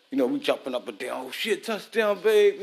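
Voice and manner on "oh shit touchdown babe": jumps higher in pitch and gets loud on babe, like a fan in front of the TV; excited touchdown cheer. Retold or imitated. Man yelling to his wife at a touchdown, excited cheer. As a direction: cheer the score to the room.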